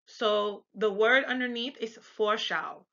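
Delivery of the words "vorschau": Vorschau ending in "ow"; German AU sound. Shown as a demonstration. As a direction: model Vorschau with an F start and "ow". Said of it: "A U is pronounced like ow".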